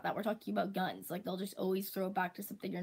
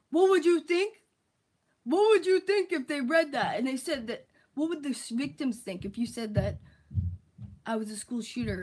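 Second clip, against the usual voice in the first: much higher and much louder whiny outrage; mocking stupid critic; 6 semitones higher, 9 dB louder than usual. Mocking the stupid critics' outrage, very high and loud. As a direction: shriek their fake outrage back at them. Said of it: "this is how stupid they are".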